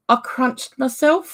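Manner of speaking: "I crunched myself" said slowly through a laugh. Real, not acted. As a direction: laugh as you admit it. Laughing about hurting herself.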